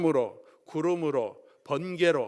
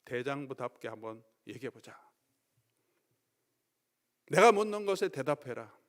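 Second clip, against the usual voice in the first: rebuking. Retold or imitated. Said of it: "막 책망하십니다".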